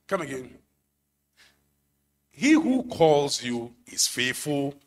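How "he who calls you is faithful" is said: "He who calls you is faithful" said slowly, each word weighed; slow emphatic. Shown as a demonstration. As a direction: lay weight on every word. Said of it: "I want that emphasis".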